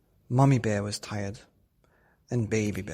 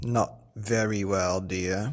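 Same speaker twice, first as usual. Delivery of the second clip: yawning; 3 dB louder, slower than usual. Acted. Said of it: "yawned Teddy Bear".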